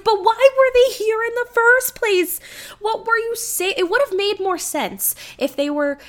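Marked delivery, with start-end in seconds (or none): 0.0-3.7 high, loud baffled challenge; exasperated question. Retold or imitated. Viewer arguing back at the movie, loud and baffled. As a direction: demand an answer, incredulous. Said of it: "I'm like".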